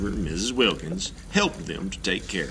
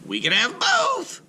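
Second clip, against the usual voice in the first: put-on very high, hopeful little girl voice; 4 dB louder than usual. Joan suggests to Mister Klug, high and hopeful. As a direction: offer it brightly like a hopeful child.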